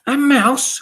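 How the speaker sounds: high, loud astonished cry; high-pitched witches' outcry; witches crying out. A narrator's reading. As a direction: shriek it like a startled witch. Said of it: "cried the witches".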